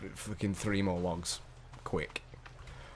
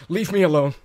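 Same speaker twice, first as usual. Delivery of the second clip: a longer, louder high yell; shout; 10 semitones higher, 15 dB louder than usual. Real, not acted. Still yelling at the attacking birds, louder high shout. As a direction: bellow it as they keep coming.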